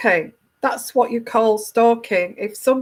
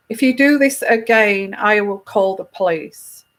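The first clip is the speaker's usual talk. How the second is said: flat firm statement of facts; factual, monotone. Shown as a demonstration. Telling a stalker to stay away, calm and factual. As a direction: lay it down as plain fact, no feeling. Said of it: "You have to do it in a factual way".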